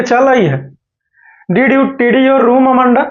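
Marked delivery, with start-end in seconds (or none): 1.5-3.1 "Did you tidy your room, Amanda?" read very slowly and higher; slow reading aloud. Shown as a demonstration. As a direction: spell the line out slowly for the class. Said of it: "देखिए". (धीमे-धीमे पढ़कर सुनाना)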